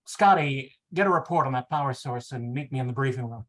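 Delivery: lightly voiced captain giving firm orders; a touch of command in the voice; authoritative captain. Shatner ordering Scotty on the transporter, mildly authoritative. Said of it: "said authoritatively".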